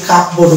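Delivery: কাপ বোর্ড with the P sounded; wrong pronunciation. Shown as a demonstration. Teacher shows students the mistake, wrong pronunciation. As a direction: say কাপ বোর্ড as two separate words, P heard. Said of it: "wrong pronunciation হয়ে যাবে".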